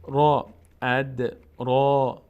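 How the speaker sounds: drawn-out, loud را with a heavy, full r. Shown as a demonstration. Teacher showing that ra is read full, heavy and drawn out. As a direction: say را slowly with a thick, full-mouthed sound.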